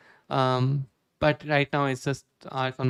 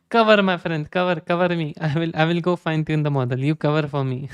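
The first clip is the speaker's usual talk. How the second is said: put-on playful Arab accent, opening on a louder call; Arab gamer accent; 3 dB louder than usual. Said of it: "C S go Arab lobby".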